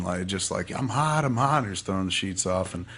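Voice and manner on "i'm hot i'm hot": higher-pitched imitation of agitation; retold distress. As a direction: mimic someone waking in distress. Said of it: "big reaction".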